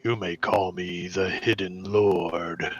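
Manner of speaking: low booming voice from the shield; magically amplified voice. Acted. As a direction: boom it out so everyone hears. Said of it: "a booming voice echoes that everyone can hear".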